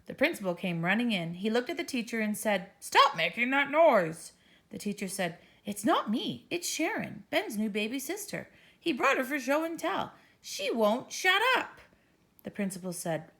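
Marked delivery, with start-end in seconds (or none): 2.8-4.3 louder, slow stern order. Acted. Principal scolds teacher. 5.7-11.8 flustered teacher. Acted. Teacher pleads, exasperated.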